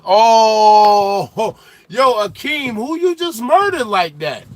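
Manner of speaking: high, loud and cracking up; shocked laugh at a brutal roast; laughing disbelief. Real, not acted.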